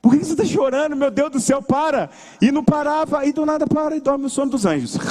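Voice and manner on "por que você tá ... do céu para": exasperated pleading. Retold or imitated. Desperate uncle with crying baby at night.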